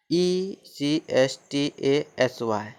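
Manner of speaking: letters E C S T A S Y read slowly one by one; letter-by-letter spelling. Shown as a demonstration. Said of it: "जैसे".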